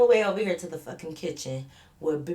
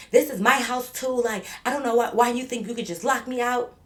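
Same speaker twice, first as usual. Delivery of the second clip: imitating Becky's raised voice; 6 semitones higher, 4 dB louder than usual. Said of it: "So she like".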